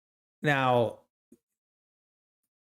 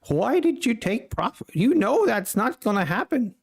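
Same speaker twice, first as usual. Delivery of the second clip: Patrick Wieland impression; 8 semitones higher than usual. Trader berates viewers for taking profit, mock yelling. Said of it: "my Patrick Wieland impression".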